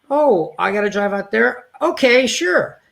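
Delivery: imitating himself agreeing to the long drive; reluctant giving in. High reluctant sigh of consent. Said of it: "So I would say".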